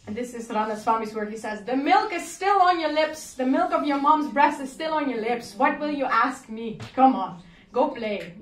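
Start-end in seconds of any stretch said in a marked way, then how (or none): 1.6-8.3 scornful. Acted. The pundit mocking the boy, scornful. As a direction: sneer down at the child.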